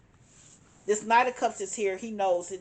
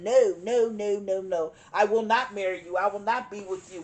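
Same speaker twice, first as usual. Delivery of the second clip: emphatic refusal; 4 dB louder than usual. Retold or imitated. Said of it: "you were emphatic".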